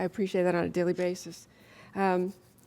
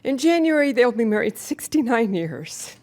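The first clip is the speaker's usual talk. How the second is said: higher, louder, voice close to breaking; fighting tears while praising her parents; holding back tears; 3 semitones higher, 4 dB louder than usual. Real, not acted. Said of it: "I'm gonna try not to cry".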